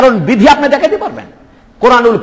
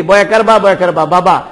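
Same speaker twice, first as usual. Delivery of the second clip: spelling out letters; 4 semitones lower than usual. Shown as a demonstration. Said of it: "আমি মুখ বন্ধ রাখছি, কলম দিয়ে লিখতেছি".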